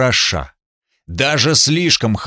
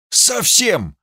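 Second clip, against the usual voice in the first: swearing it; 9 semitones higher than usual. Acted. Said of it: "поклялся Харальд".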